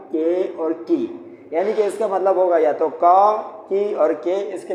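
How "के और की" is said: slow listing. Shown as a demonstration. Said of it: "इसका उर्दू में मतलब होता है का".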